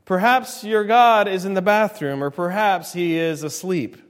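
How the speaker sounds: lightly acted jeer; mock ridicule. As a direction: needle them with mock speculation. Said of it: "Elijah ridicules them and tells them".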